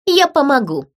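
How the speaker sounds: a touch of venom; venomous. A narrator's reading. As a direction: offer help with a sting. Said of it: "ядовито сказала Фрида". (ядовито)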